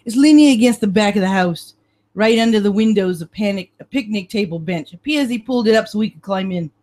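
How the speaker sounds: put-on gruff cop with a Brooklyn accent; lightly voiced Brooklyn detective. Detective Marino showing the examiner the way in, Brooklyn accent. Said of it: "I'm losing my Brooklyn accent".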